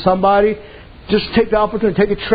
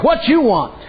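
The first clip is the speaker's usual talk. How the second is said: gruff retort, imitated; 7 semitones higher, slower than usual. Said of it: "she said".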